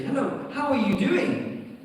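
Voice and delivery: slow, laughing over-friendly hello; overdone greeting. Retold or imitated. Passerby greeting a stranger too eagerly, hammed-up. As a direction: lay the friendliness on thick. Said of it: "you say".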